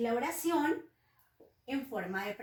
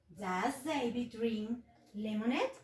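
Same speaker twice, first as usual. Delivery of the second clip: model sentence; slower than usual. Shown as a demonstration. Teacher reads model question.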